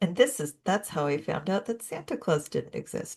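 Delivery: kept very quiet, hushed, almost under breath. Discussing a film on the show, the speaker says this part very quietly. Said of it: "I have to say this very quietly".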